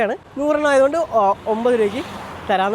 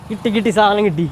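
excited; 4 semitones higher, 11 dB louder than usual. Real, not acted. Got the puja supplies at last.

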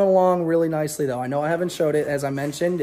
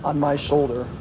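flat tired robot voice; worn-out monotone like a robot. Real, not acted. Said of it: "You sound like a robot".

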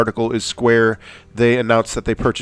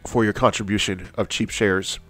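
stuffy nose. Real, not acted. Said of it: "my nose is running like crazy".

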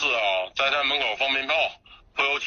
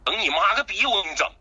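sharp swearing comeback, mildly heated; angry retort; 2 semitones higher than usual. Real, not acted. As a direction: snap back at the caller. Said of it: "你别冲动".

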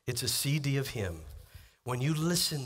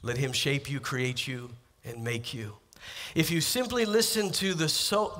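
usual speaking voice

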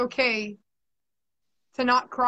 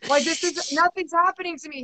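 mock boyfriend reassurance. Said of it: "I remember being like".

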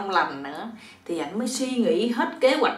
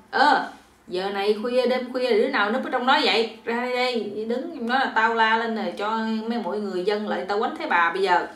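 louder, raised challenge to a hidden prowler; crying out a challenge; 2 semitones higher, 3 dB louder than usual. Acted. Mother-in-law challenges whoever hides in the banana bush, crying out. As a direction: call out a threat into the dark. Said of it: "bà mới la lên".

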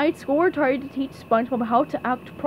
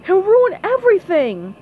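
loud, higher-pitched outburst; Squidward yelling; 8 semitones higher, 8 dB louder than usual. Acted. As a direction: yell it in alarm. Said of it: "yelled Squidward".

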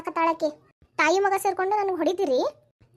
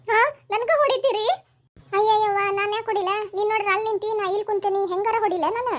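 higher-pitched, affronted outcry; indignant protest; 4 semitones higher than usual. Acted. Quarrelling in the house over who hit whom, indignant. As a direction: protest the accusation in a raised pitch.

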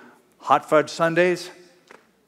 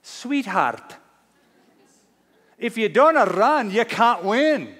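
high-pitched, put-on girlfriend voice; raised, lilting mock-female reply; smiling girlfriend; 8 semitones higher, slower than usual. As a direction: imitate an encouraging girlfriend with a smile. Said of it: "turns to him and smiles and says".

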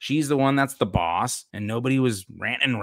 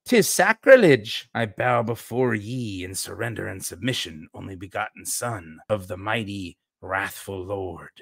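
put-on Rahne Sinclair, Scottish accent; 3 semitones lower than usual. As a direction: start aghast in Scots, then drop into reverence. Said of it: "That's why she has the Scottish accent".

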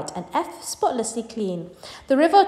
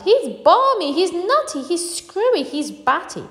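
high, panicky string of accusations; alarmed high-pitched name-calling; frightened chorus; 8 semitones higher, slower than usual. A narrator's reading. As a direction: rattle them off up high, building to a cry. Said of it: "in the chorus of frightened shouting".

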